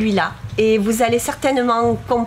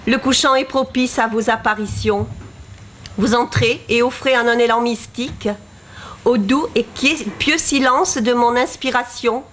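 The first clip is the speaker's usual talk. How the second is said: measured, lightly lyrical verse reading; poetry read aloud with even phrasing; poem recitation. Acted. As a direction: recite line by line, pausing after each verse.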